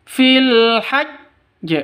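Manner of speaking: fil hajj with the jj of hajj pressed hard and doubled; chanted fil hajj, hajj stressed and held. Shown as a demonstration. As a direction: lean heavily on hajj. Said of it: "hajj harus ditekan".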